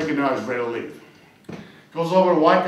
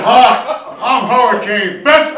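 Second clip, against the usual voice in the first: brash woman; 3 semitones higher, 9 dB louder, slower than usual. Acted. Woman introducing herself loudly.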